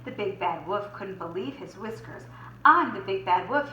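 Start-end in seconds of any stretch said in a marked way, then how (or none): 2.6-3.7 mock howl. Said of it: "he howled".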